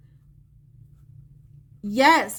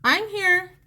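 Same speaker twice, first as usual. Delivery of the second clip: spirit's voice; 6 semitones higher than usual. Retold or imitated. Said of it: "she's saying".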